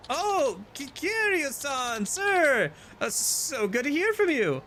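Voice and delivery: high, nervous, stammering; flustered contractor voice. Acted. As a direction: fluster and gush at the boss.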